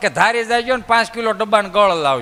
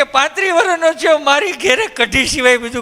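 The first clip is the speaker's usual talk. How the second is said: a hint of a friend whimpering about the food; voicing the crying friend; 3 semitones higher than usual. Weeping friend complains.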